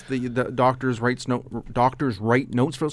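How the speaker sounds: slow, stumbling over the words; tongue-tied. Real, not acted. Guest out of practice talking to the public, tongue-tied. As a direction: trip on the phrase and restart it. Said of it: "sorry, I'm all tongue-tied".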